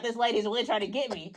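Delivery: a hushed realization under the breath; quiet dread. Retold or imitated. Realizing the customer's cough is aimed.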